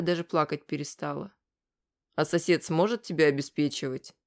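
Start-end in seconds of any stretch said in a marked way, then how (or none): 2.1-4.1 soft. Acted. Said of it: "мягко спросил Мельников".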